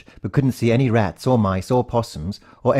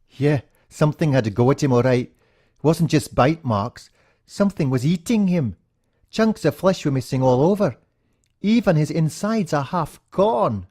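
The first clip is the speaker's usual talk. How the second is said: put-on boy recounting a gruesome find, higher and slowed; shaken friend Jolon; 6 semitones higher than usual. A narrator's reading. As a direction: tell it like a kid still in shock. Narrator voices Jolon.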